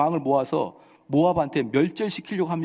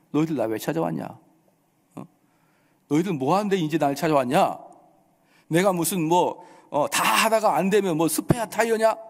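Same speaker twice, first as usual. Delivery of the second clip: mock scolding. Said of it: "이렇게 호통을 칩니다".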